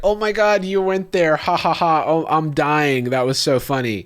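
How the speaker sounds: put-on amazed delight; mock gushing fan. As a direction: imitate an over-amused fan. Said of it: "Some people are gonna be like".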